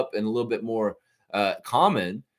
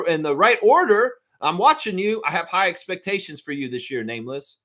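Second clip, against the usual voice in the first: mock bossy boss; 5 semitones higher than usual. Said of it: "come down to the job site and say".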